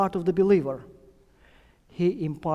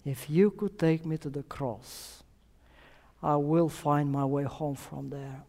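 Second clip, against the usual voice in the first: softer repeat, letting the words sink in; soft echo; 3 semitones lower, 5 dB quieter than usual. Real, not acted. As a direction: say it again quietly for the congregation to reflect on. Preacher repeats girl's words softly.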